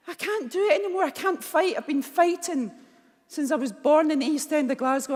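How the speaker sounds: high, strained voice of someone at the end; begging to be left alone; desperate plea. Retold or imitated. Despairing plea to her mum.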